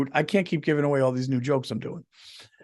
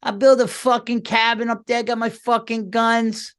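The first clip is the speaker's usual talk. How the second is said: much higher, put-on excited bro voice; high mock Bobby, loud and gleeful; Bobby impression; 8 semitones higher, 4 dB louder than usual. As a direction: ham up a buddy who's all in on the cabin. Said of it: "I could see Bobby going".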